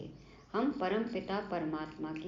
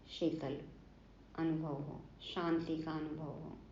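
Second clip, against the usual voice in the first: softer, slightly lowered, peaceful delivery; soothing calm; 2 semitones lower, 6 dB quieter than usual. Real, not acted. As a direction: let the words settle softly, with pauses. शीतलता और शांति का अनुभव कराना. (शांत, शीतल और धीमी आवाज़ में)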